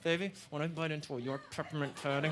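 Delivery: soft, hushed mock seduction; mock sexy voice. Shown as a demonstration. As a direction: lay on a mock sexy purr. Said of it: "a sexy way of talking".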